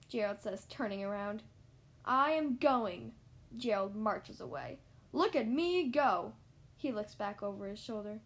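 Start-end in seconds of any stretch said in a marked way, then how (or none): 2.0-3.1 defiant. Acted. Gerald makes a show of marching away. 5.1-6.3 showy defiance. Acted. Gerald makes a show of leaving.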